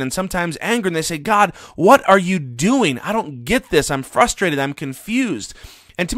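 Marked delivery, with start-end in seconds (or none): 1.2-5.5 acted-out frustration, slow emphatic opening question; voicing a baffled believer's complaint; frustrated cry to God. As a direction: plead with God in mild mock exasperation. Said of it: "cry out to God in genuine frustration".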